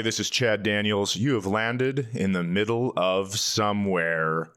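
normal talking voice

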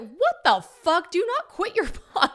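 shocked friend. Retold or imitated. Friend shocked by quitting idea.

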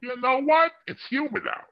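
put-on high, hammy old-time comedian; brash vaudeville comic. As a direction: sell the joke like a vaudeville hack. Stand-up comic groaner bit.

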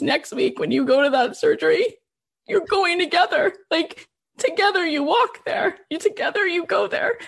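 getting teary as the words come out; choked up. Real, not acted. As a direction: voice rising and catching with tears. Rabbi's words retold while moved.

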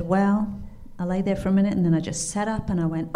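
storytelling in an amateur Kentucky twang; bad Kentucky accent. Cabin owner tells of facing a mountain lion, Kentucky accent. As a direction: play the Kentucky woman sizing up her danger. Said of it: "my very bad Kentucky accent".

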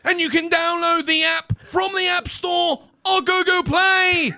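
hammed-up commentator ad, laughing through it; Ian Crocker. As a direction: shout the ad like a big commentator, cracking up. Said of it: "in the style of Ian Crocker".

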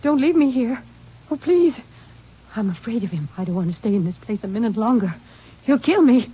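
terrified wife begging the ranger; frightened pleading. Acted. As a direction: plead not to be left alone.

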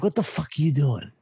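retold yelling. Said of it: "I just snapped".

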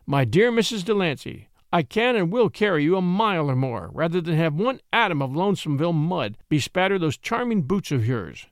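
cheerful and gallant; gallant, cheery offer. Acted. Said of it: "said Crosby cheerfully".

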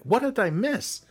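high, baffled question; confused surprise. Retold or imitated. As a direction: ask it, totally lost. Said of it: "And I'm like".

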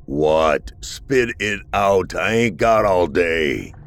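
impatient creature. Acted. Impatient creature snaps at Arthur.

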